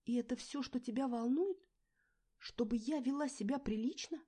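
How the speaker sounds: high, loud tearful pleading; loud tearful outburst; choking on tears. A narrator's reading. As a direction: plead through rising tears. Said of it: "давилась я слезами".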